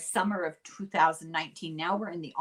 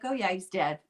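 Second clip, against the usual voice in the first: imitating an offhand, calm brush-off; casual, dismissive. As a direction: lightly mimic someone shrugging off bad news. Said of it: "Very casual, very calm, dismissive".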